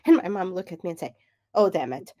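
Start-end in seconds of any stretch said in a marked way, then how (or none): 1.5-2.1 high, loud mock exclamation, laughing through it; exasperated mom. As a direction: retell mom's outburst, pitched high and loud. Mom's exasperated reaction, retold.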